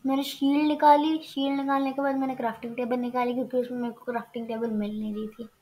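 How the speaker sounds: rattled off quickly; rapid talk. Real, not acted. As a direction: rush through it without stopping. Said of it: "इतना तेज तेज बोल रहा हूँ".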